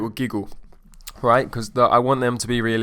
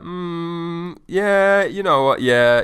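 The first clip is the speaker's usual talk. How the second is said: long, loud, high drawn-out yeah; hammed-up rising conviction; client fired up; 7 semitones higher, 8 dB louder, much slower than usual. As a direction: act a client talking himself into it. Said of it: "they're always like".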